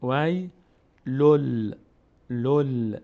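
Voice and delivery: وی then لل in separate pieces, the final l held; merged lam. Shown as a demonstration. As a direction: join the l onto لل and hold it. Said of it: "لام رو میچسبونیم به لام".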